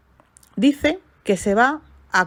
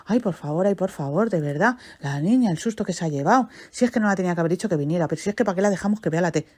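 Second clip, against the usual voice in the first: anxious father, rushed; faster than usual. Retold or imitated. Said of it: "el padre con una ansiedad".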